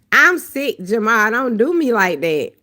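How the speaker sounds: high, loud, giggly mock protest; flustered, laughing protest at a compliment. Real, not acted. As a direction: act playfully scandalized by the comment. Reacting to viewer's compliment.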